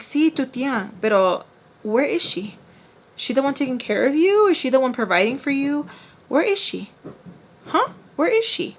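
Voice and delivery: mock pressing where is she; angry guardian. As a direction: guardian presses about the aunt, rising anger.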